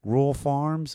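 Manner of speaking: broad Maryland twang; Baltimore accent. Shown as a demonstration. Musician demonstrating his hometown sound, Baltimore accent. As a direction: slur it in Baltimore speech. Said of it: "roll my O's".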